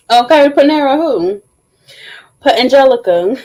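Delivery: teasing sing-song; playful. Real, not acted. Playful tease.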